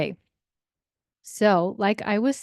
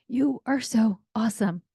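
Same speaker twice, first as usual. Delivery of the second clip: put-on sarcastic teen; 2 semitones higher than usual. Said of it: "He was totally annoyed with these noises".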